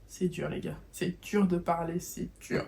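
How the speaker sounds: stuffy-nosed, struggling to talk; blocked nose. Real, not acted. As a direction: speak through a blocked nose and sore throat. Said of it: "j'ai le nez bouché".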